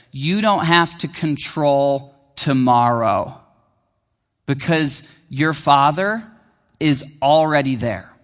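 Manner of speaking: slow, relieved and gentle; slow, reassuring sigh of comfort; sigh of relief. Acted. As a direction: let it out like a breath of relief. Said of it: "In a sigh, in a kind of breath of relief".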